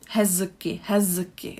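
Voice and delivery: hezky with voiced z against k, effortful; hard voiced z. Shown as a demonstration. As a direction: show how awkward voiced z plus k sounds. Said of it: "It's not really easy to pronounce".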